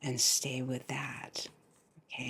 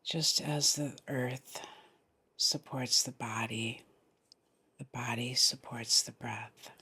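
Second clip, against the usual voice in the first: guided meditation. Real, not acted. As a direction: lead them gently into the breath, phrase by phrase.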